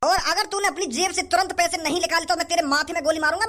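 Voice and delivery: normal talking voice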